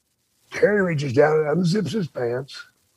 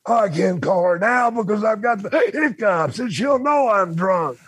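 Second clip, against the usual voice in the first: put-on drunk panic; 6 semitones higher than usual. Drunk Terry panicking over hiccups.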